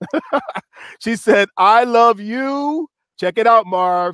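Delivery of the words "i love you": slow, intentional, deliberate reading. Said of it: "I wanted to read it slow and intentional".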